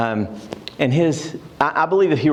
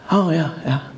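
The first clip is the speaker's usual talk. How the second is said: dismissive; 4 semitones higher than usual. Retold or imitated. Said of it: "I was being a little bit dismissive".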